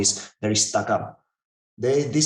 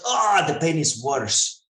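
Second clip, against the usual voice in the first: higher, drawn-out mock groan of pain; acted pained cry; 6 semitones higher, slower than usual. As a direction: cry out as the pain worsens, imitating it. Acting out sudden worsening pain.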